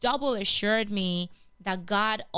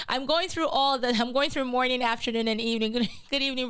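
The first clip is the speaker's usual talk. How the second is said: laughing; 3 semitones higher, faster than usual. Real, not acted. Host greeting her live audience, laughing at herself. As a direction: laugh at your own mix-up of greetings.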